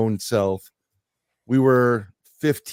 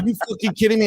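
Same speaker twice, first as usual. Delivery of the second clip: much higher incredulous mock cry; stunned disbelief; 10 semitones higher, much faster than usual. Beaten man asking the narrator if he's serious, mock shocked high voice. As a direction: squeak it out in shock. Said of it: "He's like".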